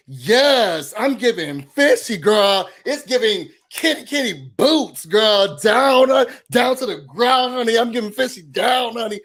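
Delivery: sassy slang demo. Shown as a demonstration. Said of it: "Now, that's a sentence".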